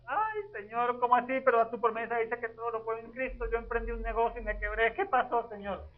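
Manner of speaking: a touch of tearful complaint; mock lament. Believer complaining to God after his business failed, mock tearful. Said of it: "Y entonces vuelvo a llorar".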